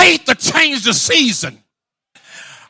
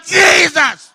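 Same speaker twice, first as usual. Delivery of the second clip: crying out; 5 semitones higher than usual. Acted. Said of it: "she kept crying".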